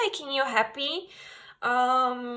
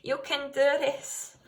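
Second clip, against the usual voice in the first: motivating cheer; 4 semitones higher, 4 dB louder than usual. Real, not acted. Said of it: "I'm in this motivating energy".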